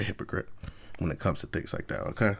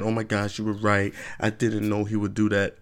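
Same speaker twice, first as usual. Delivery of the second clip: mock regret. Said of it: "don't come back to him saying".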